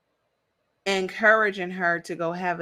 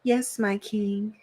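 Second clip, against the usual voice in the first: submissive wife; 4 dB quieter, slower than usual. Retold or imitated. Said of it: "being submissive".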